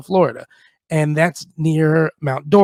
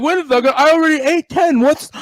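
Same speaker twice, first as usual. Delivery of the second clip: higher, louder, hammed-up hunt for the nuggets; mock searching; 8 semitones higher, 3 dB louder than usual. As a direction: play it as a frantic search.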